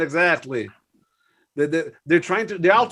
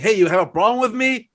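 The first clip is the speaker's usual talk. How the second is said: mock tough guy; 4 semitones higher than usual.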